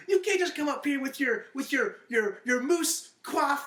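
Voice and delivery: high, loud imitation of indignation; hammed-up telling-off, drawing out the last words; mock scolding. Acted scolding quote from the show.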